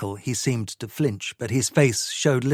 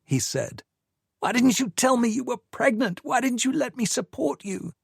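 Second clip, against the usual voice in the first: angry; 12 semitones higher than usual. A narrator's reading. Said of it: "his anger boiled over".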